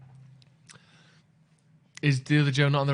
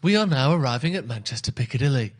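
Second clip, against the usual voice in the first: train conductor calling; 4 dB louder than usual. Retold or imitated. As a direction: call out the stop like a conductor. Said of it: "like a fucking train conductor".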